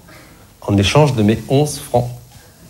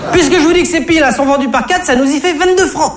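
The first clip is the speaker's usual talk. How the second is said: put-on very high, exasperated shop girl; brazen cashier. Comedian voices the cashier lying brazenly to him, very high. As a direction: snap it back, fed up.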